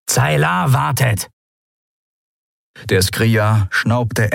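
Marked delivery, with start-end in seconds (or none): 0.1-1.3 high, drawn-out call. A narrator's reading. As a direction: call over to hurry a comrade. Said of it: "rief Kratergesicht". (gedehnter, hoher Zuruf)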